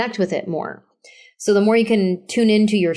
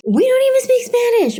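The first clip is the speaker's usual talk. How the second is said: suddenly much higher comic outburst; high-pitched exclamation; 4 dB louder than usual. Real, not acted. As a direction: blurt it out high, almost squealing. Comic exclamation undercutting his act.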